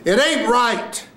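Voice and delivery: very high, slow cry; full-out acted line. Actor ending the first scene, high drawn-out cry. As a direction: throw it up high and hold it.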